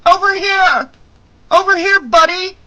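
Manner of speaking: high, loud taunting shout. A narrator's reading. Woman luring her attacker away by voice, shouting. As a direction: call out loud and high to draw him over.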